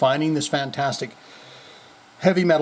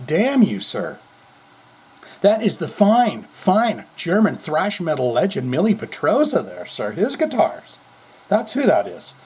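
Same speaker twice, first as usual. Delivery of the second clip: mock indignant scolding; 2 semitones higher than usual. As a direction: playfully scold the TV host. Imagined scolding of TV host.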